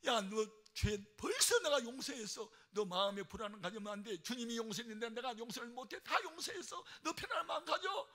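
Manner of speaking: loud, high, insistent reassurance building in pitch; emphatic forgiveness. Retold or imitated. Mother-in-law forgiving dying daughter-in-law, emphatic and loud. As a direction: press each assurance home loudly.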